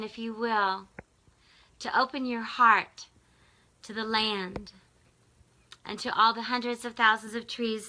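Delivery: measured prayer with long pauses between phrases; guided meditation prayer. Real, not acted. Asking viewers to send love to land and fire, meditative prayer. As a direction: lead listeners gently through a visualization, phrase by phrase.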